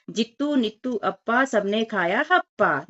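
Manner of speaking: put-on slow rhyme read to children; sing-song rhyme reading. Shown as a demonstration. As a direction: read the rhyme slowly, like a chant. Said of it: "वाक्य पढ़े और लिखे".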